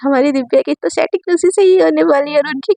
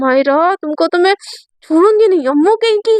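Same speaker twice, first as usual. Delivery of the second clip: playful mock threat; 3 semitones higher than usual. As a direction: chase her down with a laughing warning. Playful threat while chasing friend.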